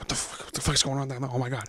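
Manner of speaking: put-on frantic panic, rattled off fast and hushed. Retelling her reaction when you fell in the door drunk, acting out someone freaking out. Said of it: "So she's like freaking out".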